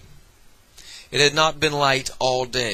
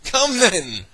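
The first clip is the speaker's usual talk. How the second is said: gaily; 9 semitones higher, 5 dB louder than usual. Acted. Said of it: "returned the nephew gaily".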